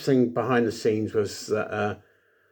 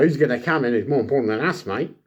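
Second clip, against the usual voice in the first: lightly attempted Australian accent; bad Australian accent; 3 semitones higher, 4 dB louder, faster than usual. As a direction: have a rough go at an Australian accent. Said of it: "I can't do an Australian accent".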